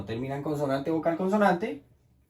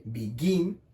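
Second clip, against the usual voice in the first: "begin" stressed on its final GIN; be-GIN, accent on the end of "begin"; stress on second syllable. Shown as a demonstration. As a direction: make GIN the strong beat in "begin". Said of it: "el acento está en el gin".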